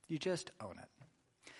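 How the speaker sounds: soft, slow repeat. Shown as a demonstration. Preacher repeating the point to the congregation, soft and slow. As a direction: drop the voice and linger on it.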